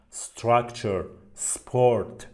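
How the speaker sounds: "استراکچر" and "سپورت" starting straight on s; no vowel before the s in "استراکچر" or "سپورت"; correct s onset. Shown as a demonstration. (تلفظ «استراکچر» و «سپورت» با شروع از سین)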